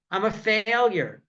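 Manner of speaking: slow, mildly woeful tortoise; mock crying. Crying tortoise tells the bird what's wrong, mock tearful. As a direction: drag it out in light self-pity. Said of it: "here's the tortoise is crying".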